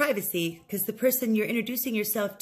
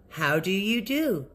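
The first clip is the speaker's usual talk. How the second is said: slow model phrase; 2 semitones lower, slower than usual. Shown as a demonstration. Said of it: "used a set phrase".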